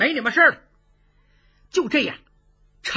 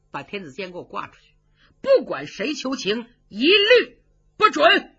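imperial order; 5 dB louder than usual. Acted. Emperor orders the execution.

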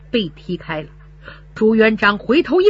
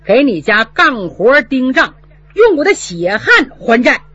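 defiant loud vow; 4 semitones higher, 5 dB louder than usual. Acted. Son stands up to steward.

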